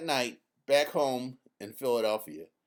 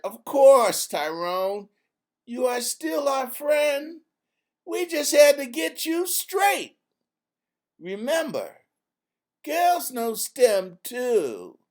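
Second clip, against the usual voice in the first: put-on a young girl teasing a friend into line; Izzy setting him straight; 9 semitones higher, 7 dB louder than usual. A narrator's reading. Izzy scolds kindly.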